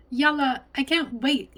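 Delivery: high, loud, eager cry; excited shout. A narrator's reading. Lena eager to start cooking with grandma, excited shout. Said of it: "Lena shouted".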